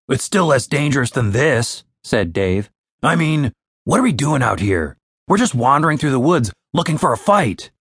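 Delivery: a different, grumbling companion; Dave's voice. Acted. Dave questioning why they wander woods, grumbling.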